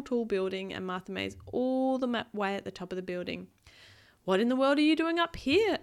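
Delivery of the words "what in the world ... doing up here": lifted, incredulous question; mildly astonished storybook man; calling out, puzzled. Acted. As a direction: call out a baffled question. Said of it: "a man called from the top floor".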